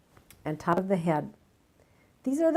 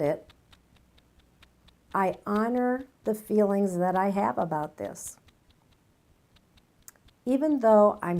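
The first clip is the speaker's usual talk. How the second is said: tapping setup statements. Shown as a demonstration. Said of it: "usually we make three statements that go something like this".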